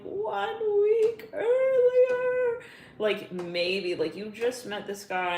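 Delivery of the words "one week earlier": cracking high voice, slow and louder; near tears. Real, not acted. Reader moved by the cards, voice cracking into a cry. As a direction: voice breaking with feeling.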